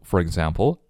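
"For example" joined by a curled r; linked r. Shown as a demonstration. Teacher showing learners the r link in "For example". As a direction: link as "fo-rig-zample". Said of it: "可以用卷舌音去连读".

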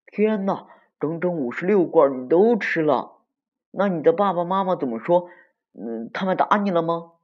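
put-on high, astonished kid voice; high-pitched, excited disbelief; shrieking classmate. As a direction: squeal the questions in shock. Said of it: "一个小伙伴尖叫道".

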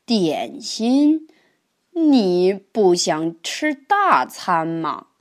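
sly tempting. Acted. Grandpa tempts the turtle.

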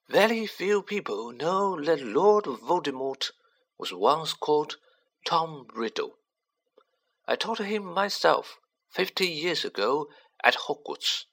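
put-on high, measured, grave old headmaster; solemn storyteller wizard. Dumbledore explains Riddle's past.

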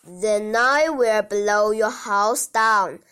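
big bad wolf. Wolf threatens the pigs.

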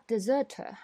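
British deserter, no r's; British English. Shown as a demonstration. Teacher compares deserter in British English. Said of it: "它们只有R的区别吗".

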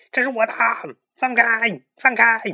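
high, loud desperate yelling; frantic shout. A narrator's reading. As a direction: struggle and shout let go. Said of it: "小胖墩儿急得大喊". (急得大喊)

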